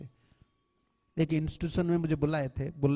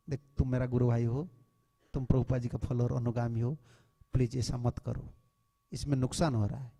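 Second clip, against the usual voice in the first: lower, softer brotherly appeal; gentle private plea; 5 semitones lower, 4 dB quieter than usual. Retold or imitated. Senior privately pleading with a god-brother, soft and low. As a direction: plead quietly with a fellow disciple. तो उनको अकेला बोलना है.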